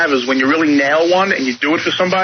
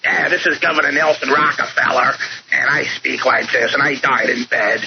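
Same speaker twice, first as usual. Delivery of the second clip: Nelson Rockefeller impression; 4 semitones lower than usual. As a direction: lightly imitate an old governor. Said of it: "I was doing Nelson Rockefeller imitations".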